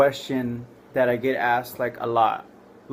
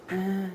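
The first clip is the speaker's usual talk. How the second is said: soft, higher-pitched dazed groan; groggy moan; 6 semitones higher, 7 dB quieter than usual.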